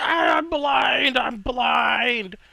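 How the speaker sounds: very high, long, slow drawn-out crying wail. Voicing a knight who covers his eyes after being blinded: blinded knight crying out. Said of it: "he then puts his hands up over his eyes, like".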